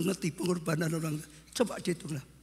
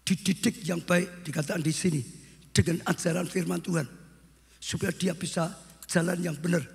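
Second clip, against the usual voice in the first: loud, emphatic sermon exhortation; forceful preaching; 5 dB louder than usual. Real, not acted. Preacher charges fathers to raise children rightly, loud exhortation. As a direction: drive each phrase home from the pulpit.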